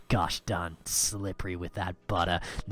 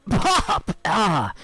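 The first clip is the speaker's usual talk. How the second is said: sudden higher, louder yelp as the toast pops; mock startled yelp; 11 semitones higher, 6 dB louder than usual. Streamer acting out the toaster popping, a startled yelp. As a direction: jump at the pop.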